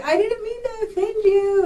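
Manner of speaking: high, drawn-out mock apology; imitated apologetic relative. Relative apologizing to crying speaker.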